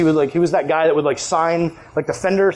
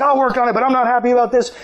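lightly voiced old grump, pitched up; higher-pitched grudging complaint; crotchety old man; 5 semitones higher, faster than usual. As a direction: grumble like a crotchety old worker. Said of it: "that old crotchety thing going".

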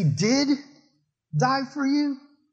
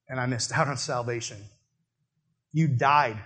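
low, softer, mild remorse fading to near silence; remorseful confession; 6 semitones lower, 3 dB quieter than usual. Pretend. A sinner answering Jesus at the gates, softly remorseful. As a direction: admit it quietly with regret.

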